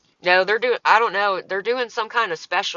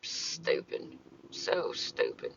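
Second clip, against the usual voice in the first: muttered whisper; 13 dB quieter, much slower than usual. Real, not acted. Muttering insult at a commenter.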